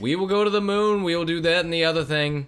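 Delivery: hammed-up JFK Boston accent; JFK impression. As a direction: orate like JFK at a podium. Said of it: "I come from more of a J F K bent".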